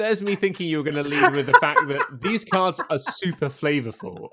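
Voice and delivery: talking through a laugh; teasing his co-host with a chuckle. Real, not acted. Teasing his co-host about the cards, laughing.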